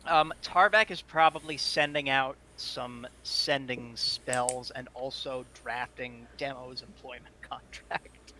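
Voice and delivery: all-purpose goblin voice; lightly voiced goblin, slow. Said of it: "All-purpose goblin voice, I love it".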